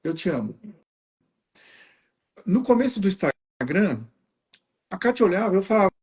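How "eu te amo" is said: tender. Shown as a demonstration. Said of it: "muito gostosa é falar".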